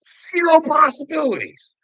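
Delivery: very high-pitched retold disbelief; incredulous outburst. Reacting to an accuser's police statement, incredulous outburst. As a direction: let disbelief shoot the voice way up.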